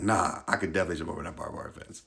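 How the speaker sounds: quick, breezy brag that he can clear it; cocky boast. Retold or imitated. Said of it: "And I was like".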